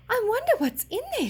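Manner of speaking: excited high whisper; whispered thought. A narrator's reading. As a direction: breathe it out in wonder. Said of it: "she thought".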